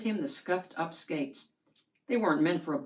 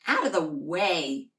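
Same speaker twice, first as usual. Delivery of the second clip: yelling sister; 4 dB louder than usual. Acted. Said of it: "Sally yelled".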